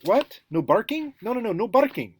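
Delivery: high, incredulous what, no barking; puzzled disbelief at the sign; baffled. Retold or imitated. Foreigner reading the parking sign, mock baffled.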